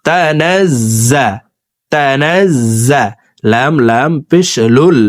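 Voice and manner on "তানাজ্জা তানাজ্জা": তানাজ্জা with the জ্জ held double, slow; তানাজ্জা slowly, জ্জ pronounced twice; doubled consonant. Shown as a demonstration. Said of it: "এই জা হরফটি দুইবার উচ্চারণ করে পড়ব".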